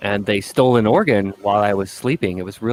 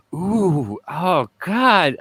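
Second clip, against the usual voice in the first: alarmed tech; 7 semitones higher, much slower than usual. Retold or imitated. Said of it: "the ultrasound tech was going".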